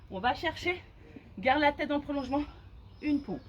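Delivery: talking mid push-up; strained speech while in plank; doing push ups. Real, not acted. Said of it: "Vous voyez, hop".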